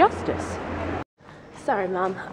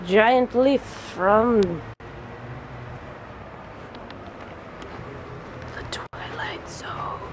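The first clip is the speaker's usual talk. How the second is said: mock spooky; 3 dB quieter, much slower than usual. Spooky joke about a leaf.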